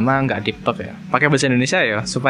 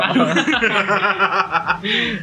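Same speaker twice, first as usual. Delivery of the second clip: laughing burst; 7 semitones higher than usual. Real, not acted. Host laughs after joke.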